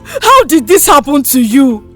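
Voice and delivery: tearful, distraught question; grief-stricken wail of a question; crying. Acted. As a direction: cry it out through tears. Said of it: "The matron cried".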